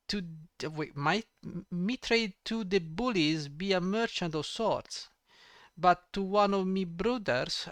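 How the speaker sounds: half-hearted put-on rogue voice; a hint of a street-thief accent, faltering; lightly voiced thief, slipping in and out; attempted accent voice. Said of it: "I can't do this voice".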